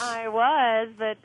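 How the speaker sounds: talking with a toothbrush in mouth; words slurred round a toothbrush; while brushing teeth. Real, not acted. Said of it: "now I'm, uh, brushing my teeth".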